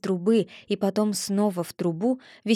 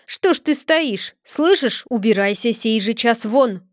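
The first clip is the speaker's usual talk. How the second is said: angry shout; 4 dB louder than usual. Acted. Blacksmith chasing away Chub.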